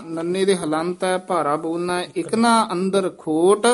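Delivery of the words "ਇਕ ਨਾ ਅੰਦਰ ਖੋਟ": weight on ਨਾ, brief break after ਖੋਟ; slight pause after ਖੋਟ. Shown as a demonstration. Teacher modelling the line, weighted ਨਾ and pause after ਖੋਟ. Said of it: "ਇੱਥੇ ਠਮਕ".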